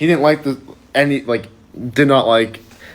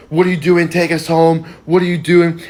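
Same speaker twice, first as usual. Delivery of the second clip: mock outraged demand, held back in volume; retold mild yell; 4 semitones higher than usual. Rider yells at the bus driver, mild mock yell. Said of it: "he's yelling at the driver".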